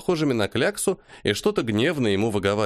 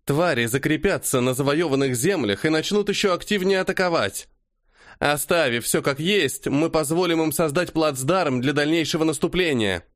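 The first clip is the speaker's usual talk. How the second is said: angry argument; 4 semitones higher than usual. Acted. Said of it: "зло смотрела женщина".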